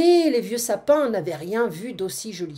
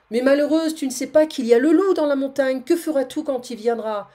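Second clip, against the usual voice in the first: alarmed warning; 5 semitones higher, 5 dB louder than usual. Acted. Seguin warns goat of wolf.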